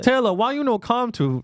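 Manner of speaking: high, hammed-up Southeast Asian accent; mock Asian accent. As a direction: plead in a put-on Asian accent. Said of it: "That's been your best accent".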